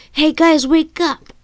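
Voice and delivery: high, loud call to wake the others; yelling. Acted. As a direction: shout to rouse the sleeping team. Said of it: "Jessica yelled".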